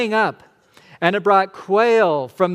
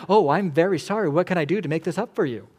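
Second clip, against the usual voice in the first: mock customer service; 2 semitones higher, faster than usual. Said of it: "God as some sort of customer service representative".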